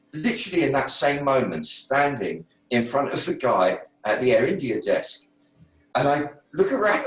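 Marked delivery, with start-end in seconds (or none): 6.0-7.1 laughing as he retells it. Real, not acted. Telling the listener, laughing at the strangeness. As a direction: chuckle through the words.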